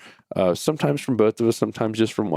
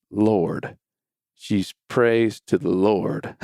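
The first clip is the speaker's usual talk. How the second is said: slow, lightly voiced small child; little boy's answer; much slower than usual. Four-year-old answering dad, slow and childlike. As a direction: imitate a kid solemnly naming the culprit. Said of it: "he just looks up at me and says".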